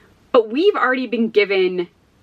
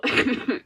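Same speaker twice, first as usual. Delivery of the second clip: chesty cough; 4 semitones higher, 5 dB quieter than usual. Real, not acted. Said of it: "I'm sorry I'm coughing so much".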